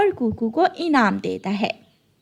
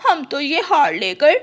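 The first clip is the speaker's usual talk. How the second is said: stammering fright; 5 semitones higher than usual. Acted. Crow wife, caught red-handed, stammers to soldier. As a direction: stammer out a weak excuse.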